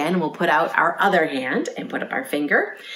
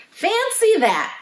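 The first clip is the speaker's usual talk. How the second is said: high, drawn-out storybook cat; fussy Missus Cat; slower than usual. A narrator's reading. Cat offers to tuck the lamb in, fussy. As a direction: exclaim it high and slow. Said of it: "said Missus Cat".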